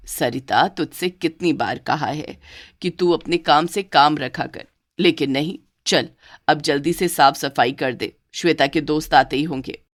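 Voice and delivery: bossy mother-in-law. Acted.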